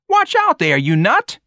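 put-on very high, loud street kid; pained angry yell. A narrator's reading. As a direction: yell it as if just hurt. George yells after being rammed.

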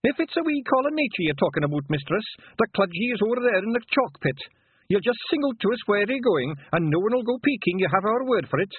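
very high Scottish pixie voice; an eager wee Feegle, helpful. A narrator's reading. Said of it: "said one attendant Feegle".

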